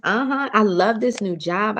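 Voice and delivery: put-on chatting with a girlfriend about the job, excited; girlfriend gush. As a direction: hype it up to your bestie. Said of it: "You must be speaking to people like".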